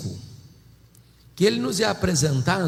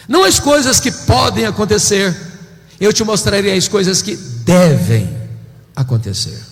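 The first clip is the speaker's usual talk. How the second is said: voice of the Lord; 3 semitones higher, 8 dB louder than usual. Acted. The Lord calling John to heaven, loud commanding voice. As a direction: proclaim as God calling John upward. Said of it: "o Senhor abriu-lhe uma porta no céu e disse".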